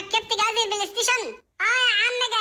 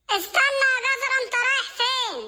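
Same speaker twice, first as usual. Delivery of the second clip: calling out. Acted. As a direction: yell after him to wait. Calling after a fleeing friend.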